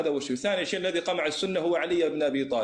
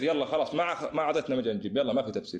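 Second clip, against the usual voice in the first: laughing; 3 semitones lower, faster than usual. Real, not acted. Laughs while brushing off the opponent.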